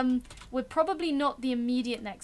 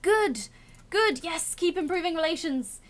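gleeful gloat; 4 semitones higher, 3 dB louder than usual. Real, not acted. Gloating over enemy morale.

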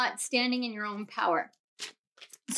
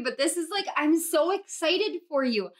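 higher-pitched rush of excitement; real excitement for the listeners; gushing, pitch lifted; excited; 4 semitones higher than usual. Real, not acted. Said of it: "If you can feel this excitement that I'm in".

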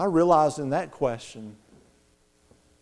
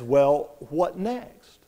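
inner voice; 3 semitones lower, 5 dB quieter, slower than usual. Retold or imitated. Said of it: "And the voice says".

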